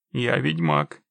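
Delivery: low, firm, falling delivery; firm statement. A narrator's reading. Witcher explains he doesn't work free, low and firm. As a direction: drop the pitch and state it as final.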